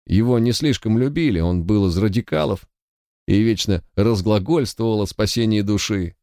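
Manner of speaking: a frightened guard pleading his case; nervous young guard. Acted.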